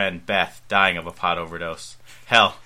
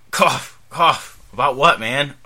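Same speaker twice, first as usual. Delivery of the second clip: sudden revival; 5 semitones higher, 7 dB louder, slower than usual. Acted. Seth wakes up.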